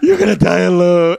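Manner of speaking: very high mock-sobbing wail; imitating hysterical drunk mother. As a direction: wail it like a chest-beating drunk mom. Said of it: "She's, like, hitting her chest".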